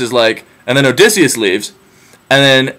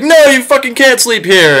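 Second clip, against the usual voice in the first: higher, sharp hostile snap; mock angry refusal; 11 semitones higher than usual. Suitor refusing the beggar, high mock-angry snap. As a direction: shut him down rudely.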